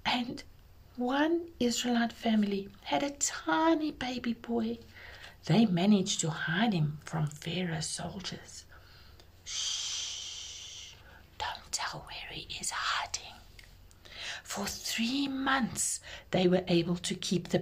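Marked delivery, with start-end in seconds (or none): 1.0-8.7 hushed, grave whisper; whispered storytelling. A narrator's reading. 9.4-13.4 hushed, secretive shushing; urgent whisper. Acted. Family hiding the baby.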